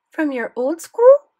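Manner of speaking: high, loud, slow French granny surprise; French-accented grandmother, surprised. Acted. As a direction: ask it like a startled French grandmother. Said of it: "thick French accent".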